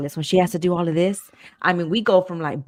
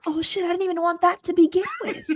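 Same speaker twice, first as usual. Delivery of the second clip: higher, laughing mock panic; 10 semitones higher than usual. She replays panicking over her wrong coffee order, laughing. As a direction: blurt it out while laughing at yourself. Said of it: "And I'm like".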